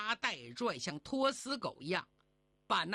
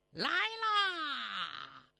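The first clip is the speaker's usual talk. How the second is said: answering a call; 5 semitones higher than usual. Acted. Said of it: "薛有为答应一声".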